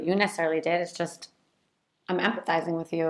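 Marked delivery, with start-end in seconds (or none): 2.1-3.1 softer, understated sympathy; empathizing. Shown as a demonstration. Partner acknowledging a rough experience, empathizing. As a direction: show you feel for them, softly. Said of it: "is lowercase sorry".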